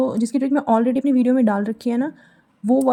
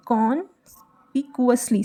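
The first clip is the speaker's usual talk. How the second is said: slow full word; slower than usual. Shown as a demonstration. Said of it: "कॉन्स्पिक्यूअसली को कैसे करोगे?".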